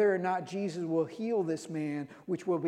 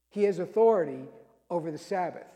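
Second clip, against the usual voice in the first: "He has authority" said louder, stressing "authority"; emphatic refrain; 4 dB louder, faster than usual. Shown as a demonstration. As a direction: proclaim "He has authority" firmly. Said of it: "repeated refrain, said emphatically".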